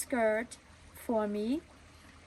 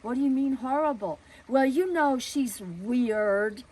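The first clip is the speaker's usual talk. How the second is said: indignant neighbor; 3 semitones higher, 6 dB louder than usual. Retold or imitated. Neighbor answers the father.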